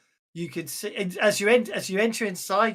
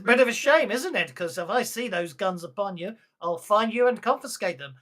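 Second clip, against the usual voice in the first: louder, higher stern lawman warning; stern marshal; 3 semitones higher, 9 dB louder than usual. Acted. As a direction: warn the stranger like a no-nonsense marshal.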